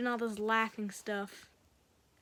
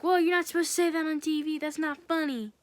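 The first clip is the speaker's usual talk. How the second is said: higher, louder and fast, taken aback; retold shocked objection; 4 semitones higher, 5 dB louder than usual. TV host scolds Joker on air, mock shocked protest. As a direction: protest like the joke crossed a line.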